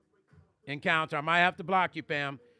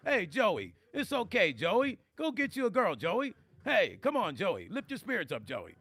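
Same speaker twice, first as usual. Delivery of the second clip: lightly voiced nervous New York comic; a hint of a jittery old-school standup; Rodney Dangerfield. Teasing Joe in a mild Rodney Dangerfield voice. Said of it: "Rodney Dangerfield".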